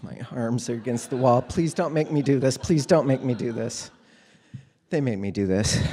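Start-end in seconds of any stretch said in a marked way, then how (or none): 1.4-2.6 put-on pleading kid. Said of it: "that dog that doesn't wanna get washed". 2.6-3.9 put-on pleading kid. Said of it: "that dog that doesn't wanna get washed".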